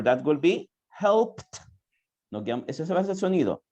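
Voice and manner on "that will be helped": slow model word. Shown as a demonstration.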